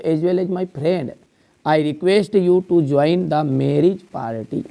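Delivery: each word drawn out slowly for copying; slow dictation. Shown as a demonstration. Teacher dictating an invitation letter to the class, very slow. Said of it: "dictating letter slowly".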